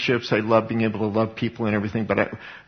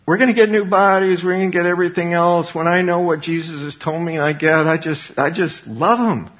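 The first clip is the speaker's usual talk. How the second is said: fervent preaching; 6 semitones higher than usual. Real, not acted. Preacher proclaims new bodies.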